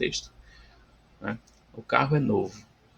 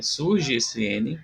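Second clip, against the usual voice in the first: ordinary talk, nothing marked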